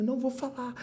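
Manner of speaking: mock-bitter refusal trailing off; retold bitter refusal. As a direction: spit out the grudge, then let it sink. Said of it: "Eu falei".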